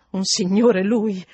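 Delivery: a stunned maid repeating what she heard; astonished disbelief. Acted. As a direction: drag the words out in shock. Housekeeper astonished at the word.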